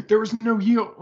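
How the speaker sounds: high, loud South Philly protest; South Philly accent. Retold or imitated. Batman arguing over right of way, hammed-up South Philly accent. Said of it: "he's from, like, South Philly".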